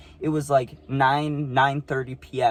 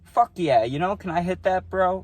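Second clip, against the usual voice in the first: mock stoner bro; 5 semitones higher, 3 dB louder than usual. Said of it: "they'd be like".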